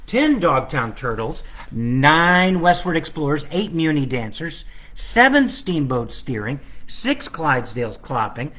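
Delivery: sing-song counting rhythm, each number leaned on; carol countdown. Acted. Illustrator reading his book's countdown in sing-song. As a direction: recite it like the carol.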